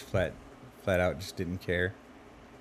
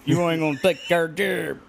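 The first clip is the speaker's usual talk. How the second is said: mock redneck shout; 8 semitones higher, 4 dB louder than usual. Mock redneck patriot rant.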